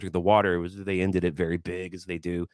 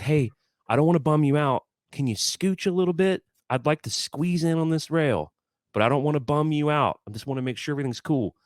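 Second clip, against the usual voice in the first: bright, higher, eager-to-please ask; overly courteous request; 7 semitones higher than usual. Retold or imitated. Fan asking a teenage girl to scooch over, extra polite. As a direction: sweetly beg a stranger for space. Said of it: "I'm being, like, really courteous".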